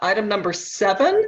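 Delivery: talking loudly.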